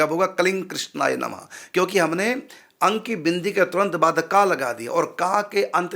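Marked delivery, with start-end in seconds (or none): 0.3-1.5 कलिंग with ng running into कृष्णाय नमः; lips left open. Shown as a demonstration. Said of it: "होठ बंद अब नहीं होंगे".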